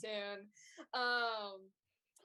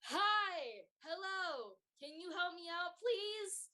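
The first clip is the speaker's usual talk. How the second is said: panicked plea. Acted. Rubius panics and begs the players for help. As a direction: beg the stranger for help, flustered. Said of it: "He's like".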